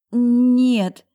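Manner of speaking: high loud squeak; squeaky cry. A narrator's reading. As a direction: squeak it out in panic. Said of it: "смогла пропищать".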